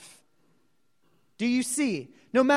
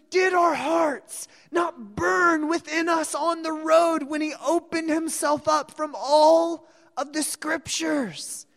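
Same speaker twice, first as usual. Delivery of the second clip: raised, ringing cry of wonder; excited exclaiming; 4 semitones higher than usual. Acted. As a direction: burst out with excitement. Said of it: "they said".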